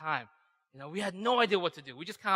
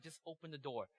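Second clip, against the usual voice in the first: soft, restrained command; quiet firm order; 16 dB quieter than usual. Acted. Youth teacher answering the boy's excuses at the door, quietly insistent. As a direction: drop the volume and insist.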